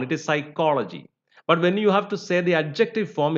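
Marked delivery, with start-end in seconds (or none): 0.2-1.1 "psychology" stressed on -CHOL-; noun stress. Shown as a demonstration. Teacher showing the noun form, stress on second syllable. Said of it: "When it is used as a noun".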